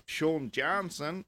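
playful put-on American accent. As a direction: stretch the name out like an American announcer. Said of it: "the, the, uh, the American accent".

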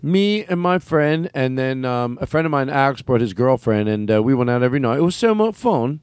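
chatty, with British vowels slipping in; casually layer British into normal talk; slight British accent. Acted. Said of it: "was layering in her British accent".

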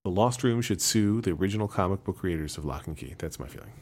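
choppy breaking-up call audio; words dropping out on a bad connection; buffering stutter. Real, not acted. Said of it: "You are breaking up like crazy".

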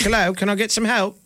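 high, pleading mock prince; mock Harry pleading. Host mocks Harry asking palace staff for help, high pleading voice. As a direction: beg for help like a stranded prince.

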